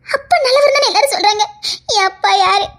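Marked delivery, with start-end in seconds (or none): 0.1-1.4 higher, crying through the words; tearful lament. Acted. Orphaned girl cries out to everyone, sobbing. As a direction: plead through tears.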